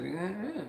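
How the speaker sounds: imitated wordless "come on" grunt; soft, half-said beckoning noise; urging noise. Neighbor urging him across the street, wordless grunt. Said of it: "he made a noise and he didn't quite say it".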